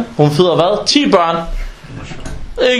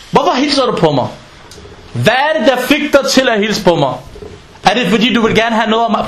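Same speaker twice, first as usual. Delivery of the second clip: suspicious questioning; 4 semitones higher than usual. Retold or imitated. Suspicious man questioning greeting.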